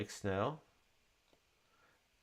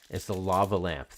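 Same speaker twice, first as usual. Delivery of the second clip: excited recognition; 8 dB louder than usual. Real, not acted. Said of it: "Thank you, my friend Larry, for pointing that out".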